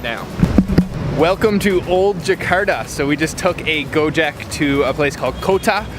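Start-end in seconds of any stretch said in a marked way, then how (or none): 1.2-2.9 excited welcome. Acted. Host welcome at new location.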